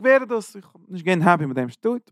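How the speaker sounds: high, indignant complaint as Chiram; displeased king. Retold or imitated. Chiram protesting the gift of twenty towns, high and indignant. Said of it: "Er sagt".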